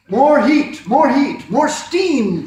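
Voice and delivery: loud, high demanding cry; cried out. A narrator's reading. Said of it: "cried the Finn".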